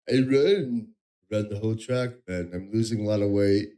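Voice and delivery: low, lazy bro voice; Mersh voice. Retold or imitated. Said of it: "And Mersh is like".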